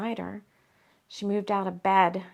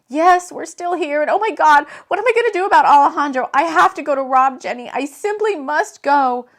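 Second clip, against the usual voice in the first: distraught Jade; 5 semitones higher, 9 dB louder than usual. Acted. Jade panics about Rob.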